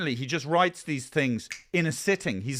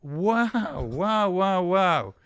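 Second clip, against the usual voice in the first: awestruck; 5 semitones higher, slower than usual. Acted. Local keeps gushing.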